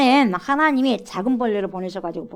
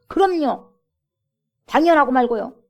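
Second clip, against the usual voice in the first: angry retort; 3 semitones higher, 7 dB louder than usual. Acted. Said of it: "화가 나니까 당장 대답하죠".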